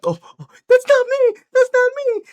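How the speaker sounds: very high, loud mock-panicked cry; hammed-up frantic plea; panicked snapping back. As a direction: squeal it out in imitated desperation. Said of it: "the real speaker snapping back in".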